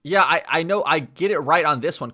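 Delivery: loud and pleased; confident, loud claim. Real, not acted.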